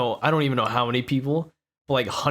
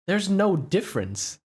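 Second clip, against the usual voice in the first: retold incredulous protest; 6 semitones higher, 5 dB louder than usual. Retold protest at friend's excuse.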